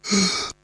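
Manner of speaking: breathing for stethoscope. Shown as a demonstration. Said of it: "And breathe in again".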